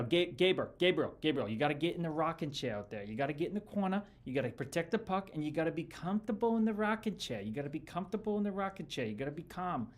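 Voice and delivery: a hint of a gruff Boston coach barking advice; imitating hardcore coach. Ex-player imitating his old coach telling a rookie to be calm. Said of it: "this is how he talked, like, so hardcore".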